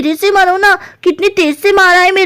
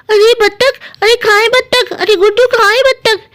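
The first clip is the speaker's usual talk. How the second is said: slightly raised, mildly surprised sister; lightly voiced Pakodi; 3 semitones higher than usual. Pakodi asks Guddu where the duck is, mildly excited. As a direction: lightly act waking up to exciting news.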